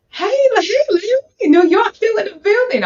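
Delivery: high, playful put-on New York accent; mock New York accent. Host greeting New York viewers in a playful mock New York accent. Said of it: "I try to have a little New York accent".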